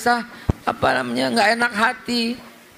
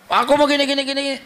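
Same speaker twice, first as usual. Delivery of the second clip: put-on higher, wheedling kid voice; higher, pleading child asking for things; whiny child; 5 semitones higher, faster than usual. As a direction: beg like a small child. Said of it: "Kalau dia berkata".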